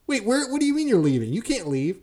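high, flustered mock disbelief; panicked boss. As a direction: sputter in alarm. Boss voiced in retold quarrel.

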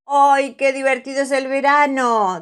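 put-on high, loud little-girl delight; Pepa's voice. A narrator's reading. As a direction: squeal it like a happy little piglet. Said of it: "dice Pepa".

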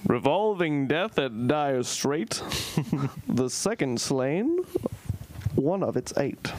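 slow, lightly dapper reading; dapper gentleman voice. Acted. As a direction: read it like a mild dapper gent. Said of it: "I went dapper".

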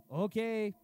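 loud, mocking the lazy workers; mocking shout. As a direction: yell the workers' excuse, scornful.

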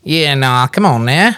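near-miss Australian accent. Shown as a demonstration. Demonstrating the accent to friends, Australian accent. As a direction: give a loose, open Australian drawl. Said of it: "it was pretty close".

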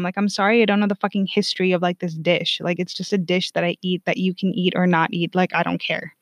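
mildly annoyed and dismissive; irritated. Retold or imitated. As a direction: retell an exasperated brush-off. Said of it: "That's how irritated I was".

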